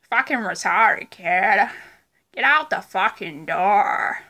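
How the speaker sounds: loud mock Boston tough talk; Ralph impression. Vlogger imitating Ralph again for laughs, loud Boston voice. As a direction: throw it out loudly, Boston style. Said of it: "that was my Ralph impression".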